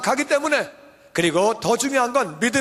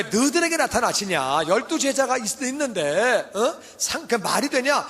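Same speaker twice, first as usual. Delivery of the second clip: scoffing disciples. Retold or imitated. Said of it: "안 믿는 거예요".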